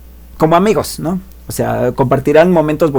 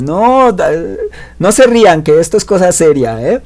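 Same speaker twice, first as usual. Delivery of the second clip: stern defense; 5 semitones higher than usual. Retold or imitated. Blonde defends him against laughter.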